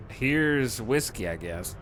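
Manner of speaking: lazy bartender. Retold or imitated. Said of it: "so you just be like".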